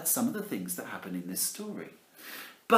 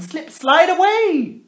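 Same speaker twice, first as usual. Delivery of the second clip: sliding high; 10 dB louder than usual. Acted. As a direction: stretch it like a long slide. Mimicking the slide.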